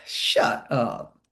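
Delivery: "Shut up." breathed low and whispered; soft playful shut up. Shown as a demonstration. Coach showing a soft whispered "Shut up" to trainees. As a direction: whisper "Shut up." gently, no edge. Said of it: "take the same words and I'm like".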